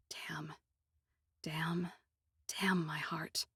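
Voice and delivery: breathy whispered damn, to herself; whispered curse. Acted. Narrator cursing her own heart in a whisper. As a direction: curse under the breath, almost silent.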